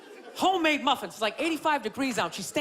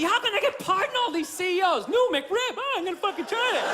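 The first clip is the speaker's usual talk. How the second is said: mock excited at TV; 5 semitones higher than usual. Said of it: "screaming at your T V".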